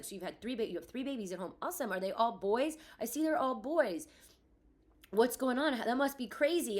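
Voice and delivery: mock the oblivious upbeat doctor; clueless chipper doctor. Mother mimicking a doctor who didn't read her chart, cheery. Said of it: "they are saying things like".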